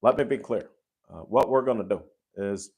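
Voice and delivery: lightly done presidential impression; a hint of a famous president's delivery; Barack Obama. Shown as a demonstration. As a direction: imitate a politician making a measured point. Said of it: "I can do a great Barack Obama".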